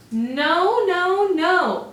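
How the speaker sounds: high, loud cry of no; frightened refusal. Acted. Little wolves refusing the pig: high loud no.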